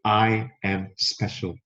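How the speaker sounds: slow, sincere self-affirmation, hand on chest. Shown as a demonstration. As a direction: say it slowly like you truly mean it. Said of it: "put your hand near to your chest and say".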